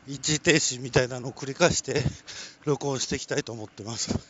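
talking while running; panting between phrases; out of breath. Real, not acted. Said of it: "走りながら喋るのは、ちょっと苦しいんですが".

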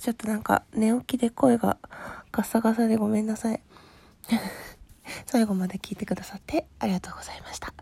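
rough, just-woke-up hoarse voice; hoarse from just waking up; hoarse morning voice. Real, not acted.

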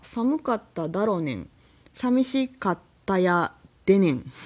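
mock Kansai speech; fake Kansai dialect. Shown as a demonstration. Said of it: "エセ関西弁が多いということでね".

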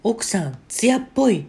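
rising high and loud; swooning comment. Retold or imitated. Viewer comment read out, high and swooning. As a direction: gush over the wife.

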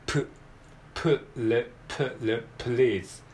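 "プ", "プル", then "please" with p running into L; consonant cluster demo. Shown as a demonstration. Teacher drilling the p-L opening of "please", sound by sound. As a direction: build "please" up from a separate p and L. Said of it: "二つ連続で冒頭に出ていきます".

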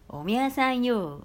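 light impression of a Nagoya uncle; old man's Nagoya address. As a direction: drawl it like a local old man. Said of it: "っていう感じで言いますね".

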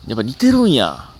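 loud exclamation. Real, not acted. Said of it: "今似てるんやの声でかかったな". (思わず大きな声で)

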